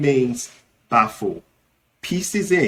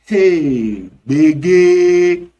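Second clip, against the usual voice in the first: alarm at looming trouble; 6 dB louder than usual. Shown as a demonstration. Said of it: "the emphatic expression to use".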